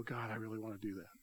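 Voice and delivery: low, very soft, quick aside to God; quiet imitated prayer. Churchgoer at home praying to God, quietly imitated. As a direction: murmur it like a private prayer.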